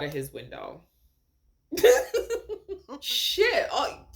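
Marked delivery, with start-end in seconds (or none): 1.7-2.9 a loud, high burst of laughter; shocked laugh. Real, not acted. Vlogger hearing the killer jumped out a window, shocked laugh.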